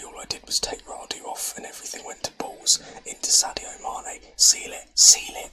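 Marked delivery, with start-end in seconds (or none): 4.4-4.9 louder whispered plea to seal it; whisper-shouting at the team to finish it; urgent whisper. Real, not acted. 4.9-5.5 much louder, almost shouted whisper; near-shout at the screen begging them to seal it. Real, not acted. Urging team to finish.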